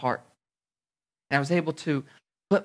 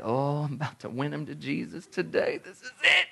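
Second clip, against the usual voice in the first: hammed-up zeal, building to a squeal; mock over-eager; 4 dB quieter than usual. Mock over-eager soul-winner before lunch.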